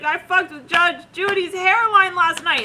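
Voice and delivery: high, loud comic wail; mock panicked confession. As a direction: blurt it out in hammed-up dread.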